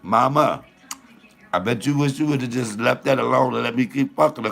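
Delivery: normal talking voice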